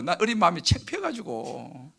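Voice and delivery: normal talking voice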